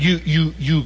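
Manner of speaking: imitating a dumbfounded son, stammering; stuck on one word, unable to take it in; retold stunned stutter; stunned disbelief. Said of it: "he couldn't assimilate this".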